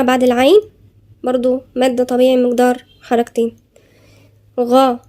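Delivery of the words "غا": غا said with a thick, emphatic ghain; isolated heavy غا; tajweed demo of the emphatic غا. Shown as a demonstration. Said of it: "الغاين هنا مفخمة".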